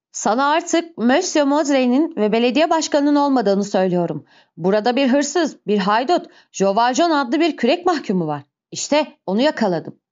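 harsh, emphatic declaration; angry denunciation. Acted. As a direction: denounce him hard before everyone. Javert angrily denounces the convict.

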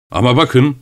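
understated cry of protest; calling out. A narrator's reading. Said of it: "diye bağırdı".

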